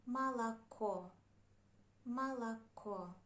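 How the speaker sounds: Молоко said carefully as "ma-la-KO"; unstressed O as A. Shown as a demonstration. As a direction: stress the last O of Молоко, the others as "a". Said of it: "we pronounce it like A".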